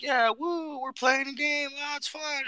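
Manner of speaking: put-on very high, excited child voice; sweet little kid. Imitating the kid in the game, high cheerful child voice. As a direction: bubble over like a happy small kid. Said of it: "He's like".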